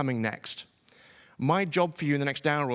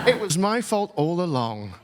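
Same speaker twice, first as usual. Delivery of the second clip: laughing; 3 semitones higher, 5 dB louder than usual. Real, not acted. Laughing at own mistake.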